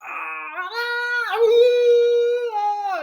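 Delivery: high sung-out imitated screams; mock screaming. The screaming hospital scene retold with high mock wails. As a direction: wail it out like the whole chaotic scene. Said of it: "So you've got".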